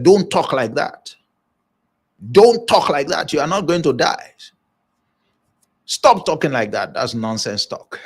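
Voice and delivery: firm, lightly acted telling-off; mild scolding. Peter pulls the leader aside to tell him off, mild scolding. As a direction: scold him with punchy opening words. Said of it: "pulled the leader aside and scolded him".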